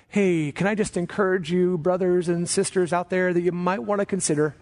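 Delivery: tentative, apologetic hedging, said in mockery; mock-gentle encouragement. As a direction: parody a timid, over-polite encourager. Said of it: "That's not a, an encouragement. Like".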